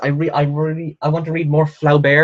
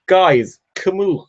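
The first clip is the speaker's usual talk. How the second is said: mock-rapturous, higher voice; lightly acted enthusiasm; imitated gushing lecturer; 6 semitones higher than usual. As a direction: imitate a lecturer raving about a favourite. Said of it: "she was like".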